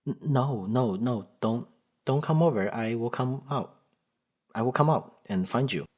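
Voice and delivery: acted panic, heading someone off; panicky. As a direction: stammer out urgent repeated refusals. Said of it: "the more panicky you get".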